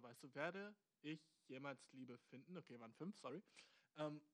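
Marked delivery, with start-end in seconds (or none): 0.3-2.6 slow, spaced-out reading of the question; word by word. Shown as a demonstration. Host picks apart the listener's words, reading slowly. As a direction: set out each word deliberately. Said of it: "einfach so diese vier Wörter".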